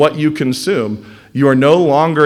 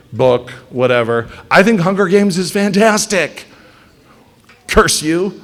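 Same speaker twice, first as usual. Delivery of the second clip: slow, high, indignant "how dare you"; hammed-up offended fan, drawn out; mock outrage; 4 semitones higher, 3 dB louder, slower than usual. Fan scolding a critic of their favorite film, mock outrage. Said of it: "we can be like".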